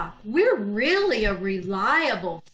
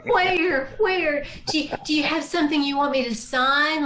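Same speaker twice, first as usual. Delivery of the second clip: eager; 3 semitones higher than usual. Acted. Swooning eagerly to buy.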